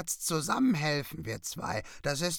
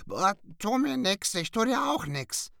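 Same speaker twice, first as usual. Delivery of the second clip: very high squawking mock fear; cackling in mock fright; 13 semitones higher, 5 dB louder than usual. Raven pretending to cower before the cat, very high squawk. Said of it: "gackste Jakob und duckte sich".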